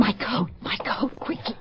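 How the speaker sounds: breathless hushed whisper, coat in a hurry; urgent whisper. Acted. Fleeing woman to her lover, an urgent whisper. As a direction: whisper so nobody hears, urgently.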